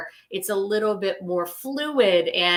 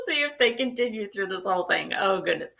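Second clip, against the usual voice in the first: fast, amused aside; laughing it off quickly; 4 dB quieter, faster than usual. Real, not acted.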